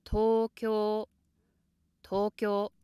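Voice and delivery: Tokyo said high and level from the first sound; high from the start. Shown as a demonstration. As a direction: hold both halves of Tokyo on one high pitch. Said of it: "pronounced high from the start".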